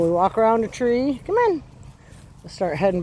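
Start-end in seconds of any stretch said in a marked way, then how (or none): 1.2-1.6 high happy call. Real, not acted. Owner calling her puppy back, high happy call. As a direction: pitch it way up, bright and inviting.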